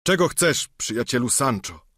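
mildly plaintive reply; tearful voice. Acted. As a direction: beaten knight answering squire, mildly tearful. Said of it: "tak samo płaczliwie".

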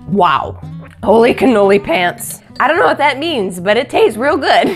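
delighted loud exclamation; excited. Real, not acted. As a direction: burst out with delight. First delighted taste of soup.

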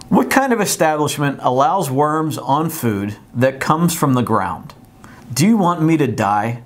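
mock-indignant dramatic reading; hammed-up outrage, lightly done. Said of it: "This woman is very dramatic".

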